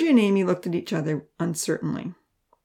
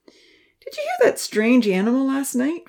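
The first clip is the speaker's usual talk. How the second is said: high, slow spooky question; eerie question; 8 semitones higher than usual. A narrator's reading. Franz teases the girls about a strange animal, slow and spooky. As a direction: lean in and draw it out to spook them.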